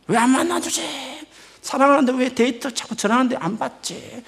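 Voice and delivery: high, put-on fretting; mock lovelorn complaint. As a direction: imitate a rejected suitor whining in puzzlement. Voices a frustrated suitor's complaint.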